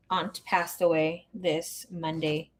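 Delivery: slow and quiet, holding back tears; softly grieving the aunt; choked up. Real, not acted. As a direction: let the grief slow you down. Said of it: "I get emotional".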